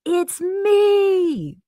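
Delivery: high, sustained, loud holler; yelled out. Retold or imitated. Late passenger yelling to the gate agents from ten feet away, hollering. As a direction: holler it long across the distance. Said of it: "and I just yelled out".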